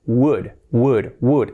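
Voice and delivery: "would" opening on a W-u sound, no L; correct would. Shown as a demonstration. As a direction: drill "would" like "could" without the C. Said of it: "sin la C y poniendo este u". ("would" repetido, sin la L)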